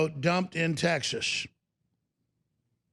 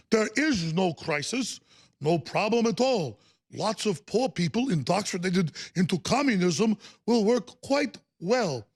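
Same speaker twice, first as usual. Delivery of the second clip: Bernie Sanders impression; 3 semitones higher than usual. Host mocking Bernie Sanders in a put-on voice. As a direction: send up the senator in a put-on voice. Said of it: "my Sanders character".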